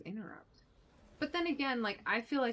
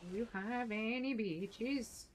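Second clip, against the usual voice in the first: mock Swedish accent; 3 semitones higher, slower than usual. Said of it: "Is this the way that Swedish people talk".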